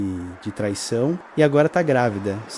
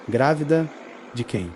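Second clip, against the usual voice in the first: menacing. Acted. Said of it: "com uma voz que dava medo".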